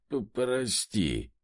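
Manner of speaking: slow, halting, stammered sorry; a hint of a drunk stammer; forced out apology. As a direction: squeeze the word out with effort. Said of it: "выдавил Бернар".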